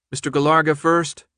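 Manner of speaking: lightly voiced cool official woman; crisp announcement over a speaker; official announcer woman. Official woman calls name.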